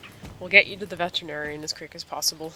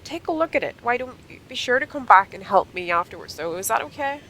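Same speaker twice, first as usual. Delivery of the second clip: put-on lightly raised, sore young rider; Sonya voice; 5 semitones higher, 4 dB louder than usual. Sonya explaining her fall to her friend, lightly raised sore voice. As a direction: tell it with a bit of a sorry-for-herself whine.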